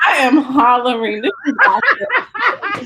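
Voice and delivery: laughing through the words; giggling embarrassment. Real, not acted. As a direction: crack up at the awkward moment. Laughing at the mix-up.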